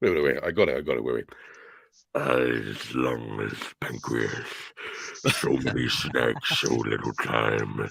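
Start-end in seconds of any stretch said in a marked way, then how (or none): 2.2-7.9 deep, slow, rough rasping voice. Doing a quick impression for the others: Venom voice. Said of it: "maybe I can do a Venomish impression".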